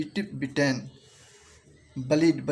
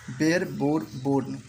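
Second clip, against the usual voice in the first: slow pronunciation demo; slower than usual. Shown as a demonstration. Teacher to students learning verb forms, slow and careful. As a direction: slowly spell out बेयर बोर बोर्न word by word. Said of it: "मैं इसको pronunciation करते जाऊंगा".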